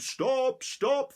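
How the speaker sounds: high, loud shout of stop. Acted. Husband chasing the gingerbread man, loud high shout. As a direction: yell after the runaway. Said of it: "followed by the farmer's husband".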